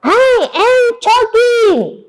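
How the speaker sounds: high, drawn-out cry; acted desperate wail. Shown as a demonstration. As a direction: shout it slowly for the class.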